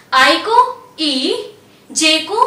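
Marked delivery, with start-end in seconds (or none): 1.0-1.3 ई said as long "ee"; ई, pure long vowel, not "eye"; French letter I. Shown as a demonstration. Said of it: "pronounce किया जाता है".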